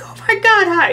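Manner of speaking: very high, loud giddy gasp of delight; greeting the sticker artist in the elevator, giddy high squeal; starstruck squeal. Retold or imitated. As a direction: squeal it like a thrilled fan. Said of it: "I was like".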